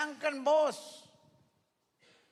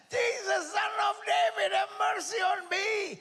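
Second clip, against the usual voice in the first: louder, higher pleading shout; crying out louder; 7 semitones higher than usual. Retold or imitated. Blind Bartimaeus begging Jesus, louder higher shout. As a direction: beg with everything, louder. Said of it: "Dia teriak lebih keras".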